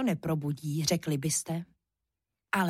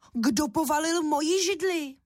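higher, cross mother bear; mama bear voice; 8 semitones higher than usual. A narrator's reading. Mama bear finding her chair on the floor, higher cross call. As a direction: scold like an indignant mama bear. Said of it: "rozkřičela hlasem medvědí maminky".

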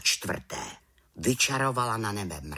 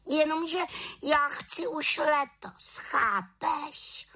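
very high pleading witch; insistent little witch; slower than usual. A narrator's reading. Little witch insisting to the raven, very high voice. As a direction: insist like a stubborn young witch.

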